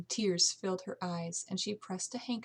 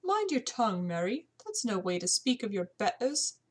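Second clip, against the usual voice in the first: scolding; 2 semitones higher than usual. Acted. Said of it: "The housekeeper frowned".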